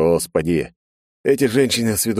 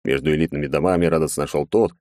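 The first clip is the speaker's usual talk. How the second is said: usual speaking voice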